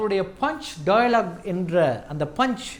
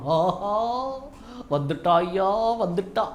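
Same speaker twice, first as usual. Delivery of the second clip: comedy movie catchphrase; much slower than usual. Retold or imitated. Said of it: "அப்படின்னு சொல்றோம்".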